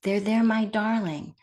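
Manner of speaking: gently comforting; soothing. Shown as a demonstration. Teacher showing how to soothe oneself like a parent, gently. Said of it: "Try soothing".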